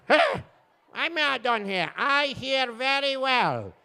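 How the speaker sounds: indignant deaf patient. Acted. Patient protesting to the doctor, high and indignant. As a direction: insist on it, affronted.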